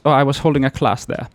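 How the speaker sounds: put-on light Dutch-German accent, quick; quick hint of a Dutch or German accent. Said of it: "overdoing the accent".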